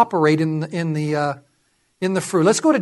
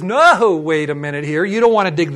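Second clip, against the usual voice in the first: checking someone; 3 semitones lower than usual. Acted. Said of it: "puts a check in you and says".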